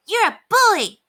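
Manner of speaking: high, loud accusing dog voice; Ribsy. A narrator's reading. Dog accuses the bigger Dalmatian, high and loud. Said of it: "growled Ribsy".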